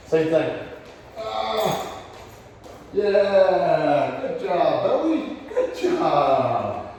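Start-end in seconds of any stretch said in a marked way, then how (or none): 4.2-6.9 animated praise. Real, not acted. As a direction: pitch up with delight for the dog. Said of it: "You can hear my animation going up".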